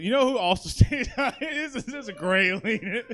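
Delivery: words breaking up with real laughter; helpless laughing. Real, not acted. Host cracking up over his own lead in, laughing. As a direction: try to speak through a giggle fit.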